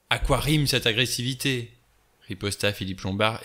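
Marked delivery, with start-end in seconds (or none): 0.1-1.7 exasperated. Acted. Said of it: "exaspéré".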